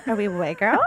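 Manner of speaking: mock uptalk rising on "girls"; exaggerated questioning lilt on "girls". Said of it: "ask questions at the end of every sentence".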